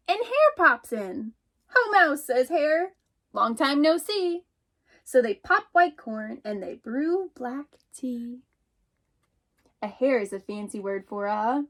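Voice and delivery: lively picture-book read-aloud, voicing each animal; animated storytime narration; reading to children. Teacher reads picture book aloud.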